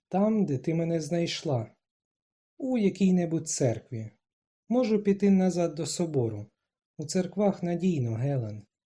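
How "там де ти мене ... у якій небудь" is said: plain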